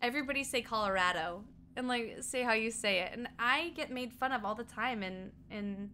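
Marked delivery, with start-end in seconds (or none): none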